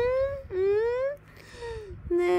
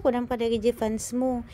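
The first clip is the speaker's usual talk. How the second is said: voicing the baby; 7 semitones lower than usual. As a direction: speak as the baby thanking his fans. Voicing baby thanking his fans.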